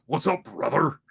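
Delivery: lightly gruff wrestler promo voice; a hint of Hulk Hogan hyping the crowd; Hulk Hogan impression. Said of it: "my best Hulk Hogan is".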